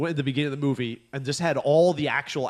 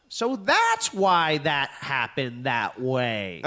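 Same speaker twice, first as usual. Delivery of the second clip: very slow, deliberate explaining; old lady to camera; 2 semitones lower, much slower than usual. Retold or imitated. Old lady turns to the camera, very slow explaining. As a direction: spell it out slowly like to a child. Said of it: "she goes".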